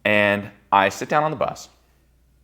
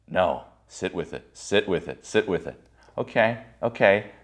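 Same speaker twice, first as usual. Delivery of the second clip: self-soothing; 4 dB quieter than usual. Retold or imitated. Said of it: "coaching himself to calm down".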